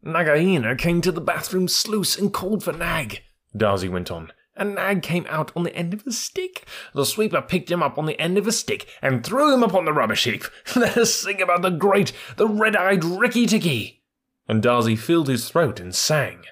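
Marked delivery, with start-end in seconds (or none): 0.0-3.2 high, chirpy bird voice, proud and excited; a tiny bird bragging; boastful little bird. Acted. Darzi tells the news. 4.5-14.0 high, chirpy bird voice, proud and excited; a tiny bird bragging; boastful little bird. Acted. Darzi tells the news.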